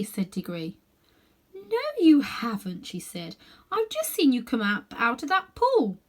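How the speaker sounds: put-on high, slow girlish voice; a half-asleep young girl; dreamy girl. A narrator's reading. Girl's voice in story.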